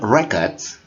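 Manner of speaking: RECORDS with the stress up front on REC; noun pronunciation. Shown as a demonstration. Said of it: "kata ini bacanya records".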